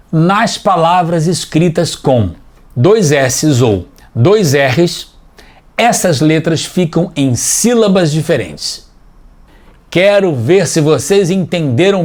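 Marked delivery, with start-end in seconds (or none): 0.1-8.9 dictating slowly. Shown as a demonstration. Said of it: "copiá-la aqui".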